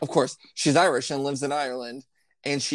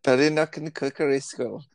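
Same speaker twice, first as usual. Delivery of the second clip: Irish accent demo. Shown as a demonstration. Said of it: "You have to say it in a sing-songy kind of way".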